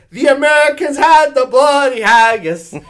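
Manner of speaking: loud, high mock-Scottish chant; hammed-up Scottish accent, shouted out; Scottish pub crowd. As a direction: roar it like rowdy Scottish pub regulars. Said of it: "a crowd of guys around us at the pub going".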